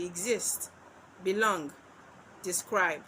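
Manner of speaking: exist, belong, describe, each leaning on its second syllable; unstressed then stressed syllable in exist, belong, describe. Shown as a demonstration. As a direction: say exist, belong, describe as iambs: ex-IST, be-LONG, de-SCRIBE. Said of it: "followed by a stressed syllable".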